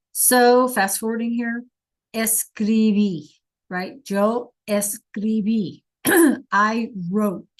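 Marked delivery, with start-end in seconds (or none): 2.1-3.3 Escribí drawn out slowly, weight on the last í; stress on final syllable. Shown as a demonstration. Teacher modelling the accented verb for class, Escribí stressed on the end. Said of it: "with the accent". 4.1-5.8 Yo escribí, slowly, the last í of escribí stressed; stress on final syllable. Shown as a demonstration. Teacher repeating the answer with its accent, escribí stressed on the end. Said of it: "with the accent".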